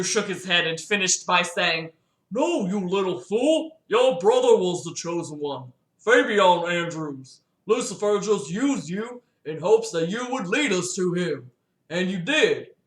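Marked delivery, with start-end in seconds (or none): 2.3-12.7 a light Hank Hill impression; mild Hank Hill as the stern father. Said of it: "You guys like Hank Hill's voice?".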